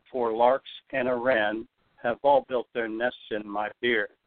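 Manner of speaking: a jaunty limerick reading; slow rhythmic reading. Shown as a demonstration. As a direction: read the limerick with the beat marked. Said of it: "I'm gonna read it rather slowly so you can really hear".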